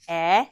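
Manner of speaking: isolated short e, as in net; short e sound. Shown as a demonstration. Teacher modeling the short e vowel for kids. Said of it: "E says".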